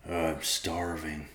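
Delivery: moaned. A narrator's reading. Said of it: "Riverpaw moaned".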